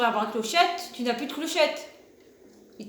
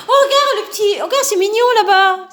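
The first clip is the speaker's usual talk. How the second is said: laughing; 6 semitones higher, 9 dB louder than usual. Real, not acted. Laughing at cute item.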